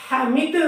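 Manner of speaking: حمید ending in an echoing د; qalqala. Shown as a demonstration. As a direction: bounce the د of حمید with an echo. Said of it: "کلکلا کرنا ہے".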